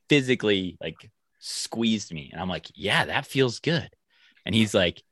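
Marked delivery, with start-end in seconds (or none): 2.7-3.9 higher, drawn-out pleased reply. Retold or imitated. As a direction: relish it slowly, acting out the memory. Retelling pleased reply to squeeze.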